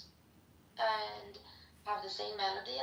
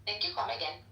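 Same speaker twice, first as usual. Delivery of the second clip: Indian accent; faster than usual. Shown as a demonstration. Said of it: "Could you do Indian".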